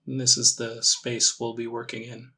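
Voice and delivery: calm meditation guide, long pauses between phrases; measured, gently leading meditation voice; guided meditation. Acted. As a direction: ease them into it with unhurried, spaced-out instructions.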